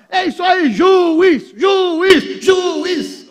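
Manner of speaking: high, loud mock chant for the referee; cheering crowd. Preacher mimics fans praising the referee. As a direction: chant the ref's name like a happy crowd. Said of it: "a turma".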